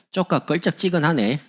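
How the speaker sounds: high, loud Jeolla dialect. Acted. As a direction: imitate a Jeolla local voicing doubt. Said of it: "전라도". (높고 큰 전라도 사투리로)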